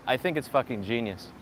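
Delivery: deadpan sarcastic praise. Acted. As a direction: praise it while meaning the opposite. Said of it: "if you couldn't tell by my sarcasm".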